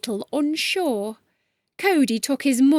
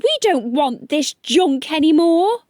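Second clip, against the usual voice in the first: louder fed-up complaint; angry shout; 3 semitones higher, 5 dB louder than usual. Acted. Cheated animals to the chameleon, angry shout. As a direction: throw it back at him. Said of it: "they shouted".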